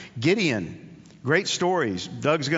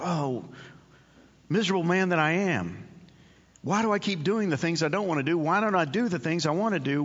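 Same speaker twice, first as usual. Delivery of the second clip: a hint of Paul's anguished lament, slightly raised; 3 semitones higher than usual. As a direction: sigh it out like a man weary of himself. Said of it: "live in Romans six with Paul".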